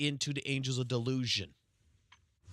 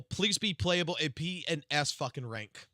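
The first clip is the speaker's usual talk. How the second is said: usual speaking voice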